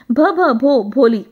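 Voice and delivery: भ, भ, भो stuck before भोली comes out; a nervous girl finally stammers out her name to the teacher; stammered name. Acted. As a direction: stammer hard, then release the name. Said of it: "आखिरकार उसने अपना पूरा नाम बोल दिया".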